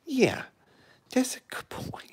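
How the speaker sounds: breathy whispered praise. Real, not acted. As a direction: whisper it to the cat.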